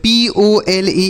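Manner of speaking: एन ओ एस ई, every letter spaced and drawn out; slow letter-by-letter spelling. Shown as a demonstration. Teacher spelling a word slowly for children, slow and spaced. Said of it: "इसे पढ़ेंगे पोल".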